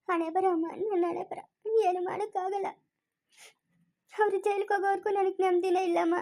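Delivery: soft, weepy lament; subdued crying voice; tearful resignation. Acted. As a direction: mourn your own fate quietly. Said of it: "ಯಾಕ್ ಅಳ್ತೀಯ?".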